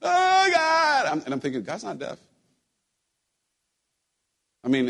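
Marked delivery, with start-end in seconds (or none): 0.0-1.1 loud, high imitation of churchgoers wailing; mock yell. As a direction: cry out to heaven, hammed up. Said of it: "then they would yell".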